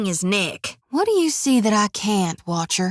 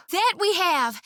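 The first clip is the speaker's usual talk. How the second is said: high, halting, tripping over her words; overwhelmed fan meeting her idol; stunned squeal; 6 semitones higher than usual. Acted. Shodi face to face with Gon, stammering in high awe. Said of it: "Shodi squeals. Trembling".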